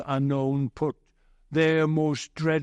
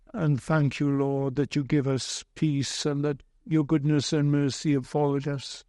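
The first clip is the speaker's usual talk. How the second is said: a lightly voiced pastor's prayer; a hint of prayer voice, close to plain talk; closing prayer.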